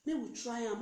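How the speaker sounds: slow, coaxing mock plea; unhurried, wheedling sweet-talk. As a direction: coax a partner gently and slowly. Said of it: "You know how you take talk to am".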